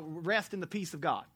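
usual speaking voice

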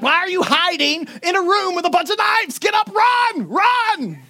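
a frantic moviegoer hollering at the screen; yelling at the screen. Retold or imitated. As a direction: urge her to get up and run. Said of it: "yell at that lady".

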